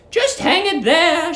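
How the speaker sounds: put-on high, slow, sugary old lady; sweet landlady. Landlady luring the young lodger, high sugary coo. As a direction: coo at him like a doting landlady.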